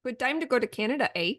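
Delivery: put-on quick playful Canadian accent with "eh"; mock Canadian accent. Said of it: "about the Canadian accent".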